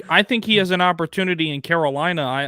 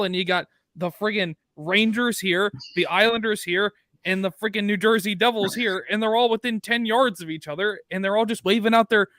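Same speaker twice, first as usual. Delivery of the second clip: fired-up rant; 5 semitones higher than usual. Real, not acted. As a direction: rant like a die-hard fan who's had enough. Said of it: "going on a rant".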